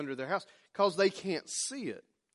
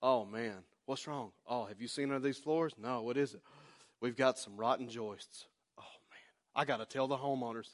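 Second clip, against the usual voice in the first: soft, hushed mock-secret whisper; hammed-up conspiratorial whisper; staged whisper; 5 semitones lower, 9 dB quieter than usual. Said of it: "they get the".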